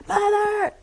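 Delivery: high, loud call of Mother. Retold or imitated. Someone summoning her from the next room, loud high call. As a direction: sing out Mother across the house.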